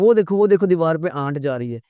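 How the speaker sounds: excited mimicry with आंट said "aant"; imitated mispronunciation. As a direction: mimic someone pointing out an ant as आंट. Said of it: "और हम कहते हैं". (चींटी को "आंट" कहने की नकल)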